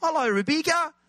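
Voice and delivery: high-pitched mock New Zealand accent; teasing Kiwi accent. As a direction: tease her in exaggerated high Kiwi. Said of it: "with a Kiwi accent".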